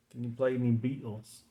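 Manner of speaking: limited British accent, mostly in the T; attempted British accent. Shown as a demonstration. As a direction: try a modest British accent on the band's name. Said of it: "the extent of my British accent".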